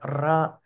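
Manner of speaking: ra said alone with a trilled r; rolled r. Shown as a demonstration. Teacher demonstrates rolling the R sound. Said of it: "it could even roll the R".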